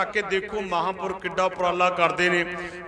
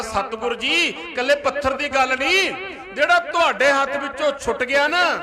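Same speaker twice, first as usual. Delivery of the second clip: raised, high-pitched insistence; impassioned retelling; 6 semitones higher than usual. Retold or imitated. Disciple's answer to the Guru retold for the congregation, impassioned. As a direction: press the point home in a high preaching voice.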